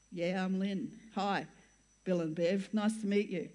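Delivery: low, mildly deflated hello; underwhelmed greeting. Retold or imitated. Pregnant newcomer meeting Bill and Bev, mildly underwhelmed acted greeting. Acted reluctant reply to the strangers.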